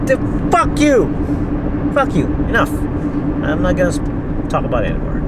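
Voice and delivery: high-pitched, exasperated outburst; real fed-up cursing; hungry and furious. Real, not acted. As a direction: rant at the top of your range, then cut it off. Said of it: "I'm so fucking hungry".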